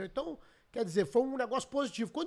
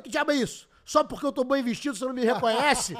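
playful retold jab; 3 semitones higher, 6 dB louder than usual.

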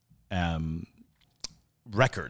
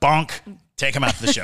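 a hint of a rough pirate; light pirate growl; 5 semitones higher, 3 dB louder, faster than usual. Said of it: "I love your pirate voice".

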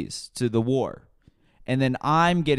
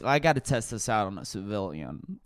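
low murmur; 3 semitones lower, 5 dB quieter than usual. Retold or imitated. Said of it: "I'm like".

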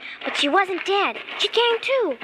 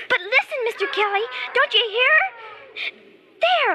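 rising high and urgent; urgent pleading; 4 semitones higher than usual. Acted. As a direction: beg him to listen. Girl urgently pointing out scream.

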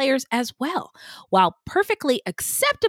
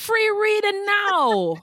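high TV psychic pitch with fake Caribbean lilt; Miss Cleo ad voice; 10 semitones higher, much slower than usual. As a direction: hawk readings like the late-night psychic ad. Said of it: "Did you know her accent? Her accent is fake".

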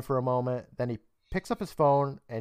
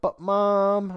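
higher-pitched mock kid protest; 6 semitones higher than usual. Excused kid appeals to his mom, mock protesting. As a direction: lightly imitate a pleading child.

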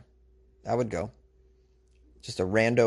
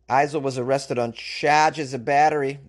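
put-on slow news line in a Boston accent; put-on Boston accent, drawn out; 3 dB louder, slower than usual. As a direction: drop the R's like a Bostonian. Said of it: "I don't know why I slipped into this Boston accent".

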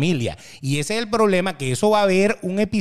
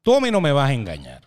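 stern father; 4 semitones lower, slower than usual. Retold or imitated. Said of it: "Me dijo".

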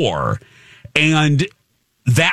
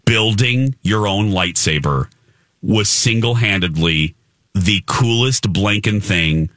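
lower-pitched, sincere and deliberate; earnest; 6 semitones lower than usual. Real, not acted. Telling friends about building a lightsaber, earnest sincerity. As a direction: drop the goofiness and mean it. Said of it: "I mean this".

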